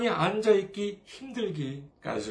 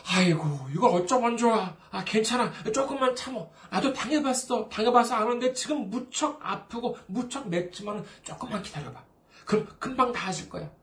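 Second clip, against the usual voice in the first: sympathetic "아이고, 이걸 어쩌면 좋아" then a higher, kindly "조금만 참어"; tender consolation; gentle comforting; 3 semitones higher than usual. Retold or imitated. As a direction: soothe a friend in pain, chuckling kindly. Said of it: "이렇게 위로해주는 것".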